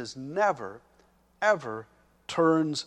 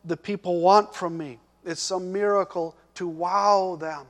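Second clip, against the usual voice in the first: loud, pressing questions, higher pitch; Jesus challenging, loud; 5 semitones higher, 8 dB louder than usual. Acted. Jesus confronting the pleading father, loud and challenging. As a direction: press him hard with each question. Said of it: "In essence, he was saying".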